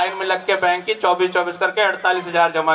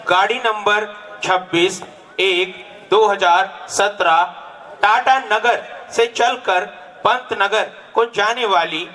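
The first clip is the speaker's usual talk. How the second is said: echoing train announcement. Acted. Mock railway station announcement.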